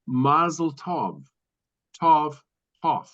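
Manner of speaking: "Mazel Tov" said slowly, stress on "Mazel"; slow careful "Mazel Tov", then "Tov" repeated alone; pronunciation demo. Shown as a demonstration.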